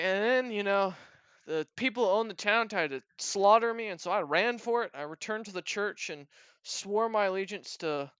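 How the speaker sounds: lightly voiced goblin telling his tale; storytelling goblin.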